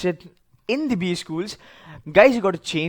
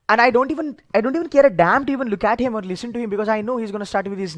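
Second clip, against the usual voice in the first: exasperated; 4 semitones higher, faster than usual. Real, not acted. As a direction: rush it out with exasperation. Dismissive interviewer rant.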